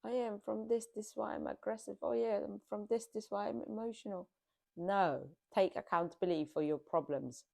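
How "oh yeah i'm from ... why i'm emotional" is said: mocking sing-song excuse. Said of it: "stop with the stereotype nonsense".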